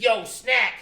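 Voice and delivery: high, loud shout of a name; a big hype hello from the caller; loud greeting. Retold or imitated. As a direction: call out his name over the phone like an old friend. Caller Fredro greets him loudly.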